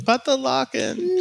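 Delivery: high, slow, drawn-out mock despair; mock dramatic wail. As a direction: ham up the panic, very slow and high. Echoing the mock lock-in wail.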